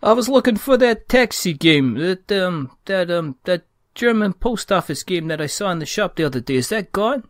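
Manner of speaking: hammed-up New York shopper; mock New York customer.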